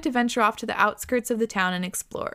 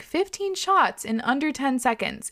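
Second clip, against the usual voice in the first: slowly spelled-out reveal, higher in pitch; slow emphasis; 4 semitones higher, slower than usual. Real, not acted. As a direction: lay out the astonishing figure slowly. Reads out the contest's rule.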